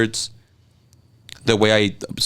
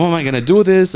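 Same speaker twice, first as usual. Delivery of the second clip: retold worried question; 7 semitones higher, 4 dB louder than usual. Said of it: "I was like".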